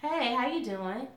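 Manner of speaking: slow, lightly voiced Southern gentleman drawl; husband's Southern drawl. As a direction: ease out a smooth Southern greeting, imitating her husband. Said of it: "Southern gentleman drawl".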